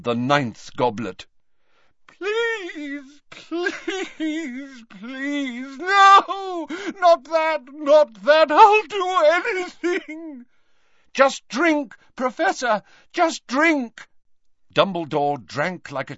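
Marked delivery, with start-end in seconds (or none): 2.1-10.5 high, wailing, breaking pleas; terrified begging. Acted. Dumbledore begging in terror. 11.1-14.1 urgent coaxing. Acted. Harry urging desperately.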